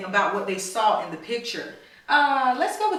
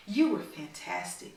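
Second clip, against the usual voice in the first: whispered; 6 semitones lower, 8 dB quieter than usual. A narrator's reading. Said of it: "whispered Natalie".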